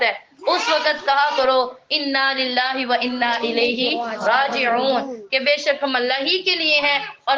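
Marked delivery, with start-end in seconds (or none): 1.9-5.1 slow, drawn-out Arabic recitation; measured recitation. Shown as a demonstration. Teacher showing listeners what to recite in hardship, measured recitation. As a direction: recite it slowly, phrase by phrase.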